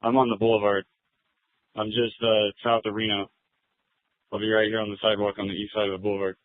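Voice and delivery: officer speaking over the radio; thin, filtered radio voice; police radio. Real, not acted. Officer gives location by radio.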